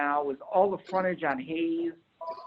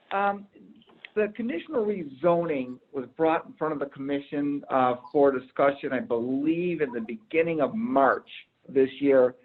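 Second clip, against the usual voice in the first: through a mask. Real, not acted. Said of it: "with the mask on".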